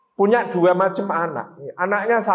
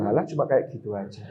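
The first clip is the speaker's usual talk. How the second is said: dismissive scoff; 9 semitones lower, 7 dB quieter, faster than usual. Retold or imitated. Dismissive quote.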